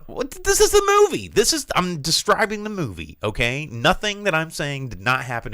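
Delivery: very high, loud defensive outburst; loud protest. Real, not acted. Host answers uncomfortable co-host, high loud protest. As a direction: protest in squeaky disbelief.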